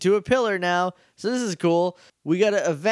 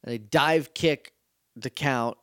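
nodding off; 5 semitones lower than usual. Real, not acted. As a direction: talk while falling asleep. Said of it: "I'm falling asleep as I'm talking".

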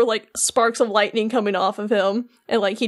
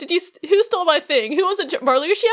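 mock indignant; 5 semitones higher, faster than usual. Acting robbed member hunting the thief.

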